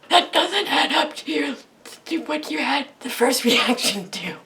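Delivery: high, loud incredulous protest through laughter; laughing disbelief. Retold or imitated. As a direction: object while cracking up. Amused disbelief at retold compliment.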